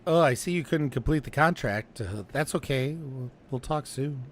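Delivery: sad, clingy sign-off fading away; needy and sad. Retold or imitated. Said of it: "And he sounded so sad".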